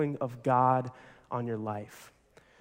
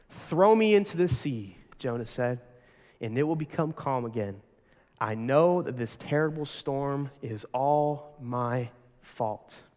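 resigned Jonah; 3 semitones lower than usual. Acted. Jonah telling the sailors to throw him overboard, resigned. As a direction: let it sink with guilt.

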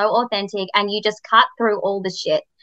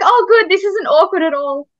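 sarcastic; 7 semitones higher, 3 dB louder than usual. Retold or imitated. Retold ironic thought.

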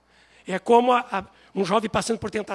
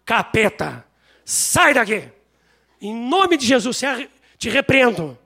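stern rebuke; 3 semitones higher, 8 dB louder, slower than usual. Retold or imitated. Preacher retelling how he ordered the devil out of his room. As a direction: cast the devil out with full force.

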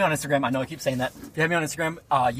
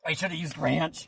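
laughing; 5 dB quieter, slower than usual. Real, not acted. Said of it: "Oh my gosh".

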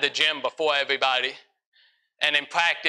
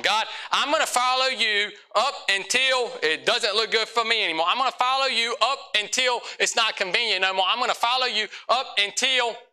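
mock promise; 5 semitones higher than usual. Voicing a half-hearted follower's promise.

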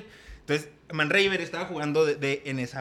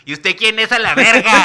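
loud, higher, slow defiant yell at the captain; insolent shout; 5 semitones higher, 15 dB louder, slower than usual. Retold or imitated. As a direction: snap back like a cocky kid squaring up. Bratty kid challenging the captain.

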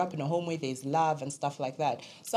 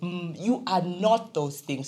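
slow, lightly imitated motherly reassurance; a mother's measured, loving correction; loving rebuke; slower than usual. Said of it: "it was shouting at you with love".

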